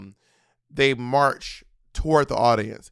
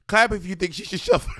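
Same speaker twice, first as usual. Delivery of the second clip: imitating Wendy Williams; 5 semitones higher than usual. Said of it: "her going".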